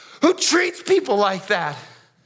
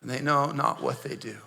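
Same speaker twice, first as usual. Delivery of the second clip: quiet plea; 11 semitones lower, 8 dB quieter than usual. Acted. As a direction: murmur it as a dying man's prayer. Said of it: "He said".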